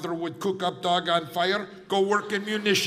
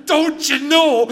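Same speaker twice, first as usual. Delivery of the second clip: louder, laughing mimic of Minnesotan; mocking Minnesota accent; 8 semitones higher, 9 dB louder, slower than usual. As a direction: tease him by parroting his accent. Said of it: "the funny accents".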